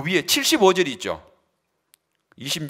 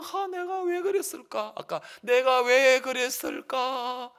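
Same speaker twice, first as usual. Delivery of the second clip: higher, slow anguished self-reproach; regretful lament; 10 semitones higher, slower than usual. Acted. Judas lamenting his betrayal right after, slow regretful. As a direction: drag out the regret.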